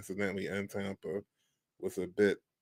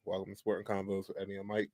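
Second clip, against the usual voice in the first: quick repeat; 4 dB quieter, faster than usual. Real, not acted. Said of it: "But again".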